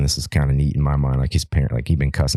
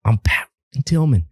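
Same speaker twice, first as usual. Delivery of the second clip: high, drawn-out mock yell, held back in volume; Pat Tillman yelling; 9 semitones higher, slower than usual. Soldier yelling his name at his own platoon, imitated yell. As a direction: imitate calling out slowly over gunfire. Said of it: "and yelling at him".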